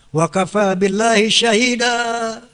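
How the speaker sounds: slow chanted Arabic verse; Quranic recitation. Acted. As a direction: recite it slowly, savoring each word. (lantunan ayat perlahan)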